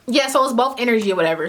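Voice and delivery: talking while eating; words round a bite of food; mouth full. Real, not acted. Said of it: "this finna turn into a mukbang".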